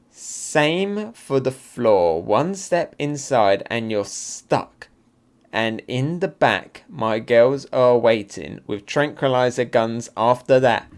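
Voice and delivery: slow, deliberate reading of a villain's lines; villain's measured gloat. Acted. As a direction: draw out each threat unhurriedly. Reads villain's manga dialogue slowly.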